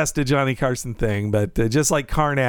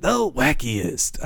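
Montaigne imitation; 4 semitones lower, much slower than usual. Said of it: "I like hearing Montaigne say".

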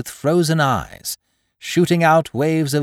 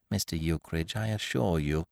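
meek pleading; 8 semitones lower, 9 dB quieter than usual. A narrator's reading. Landlord pleads meekly.

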